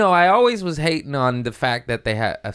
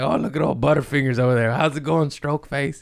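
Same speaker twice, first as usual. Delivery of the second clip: teasing mockery; 4 semitones higher than usual. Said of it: "We're like".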